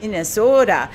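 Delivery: put-on a light Minnesota accent, read with a laugh; reading a listener's story in a mild Minnesota accent. Host reads a listener's ballgame story in a mild Minnesota accent. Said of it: "attempt to do a Minnesota accent".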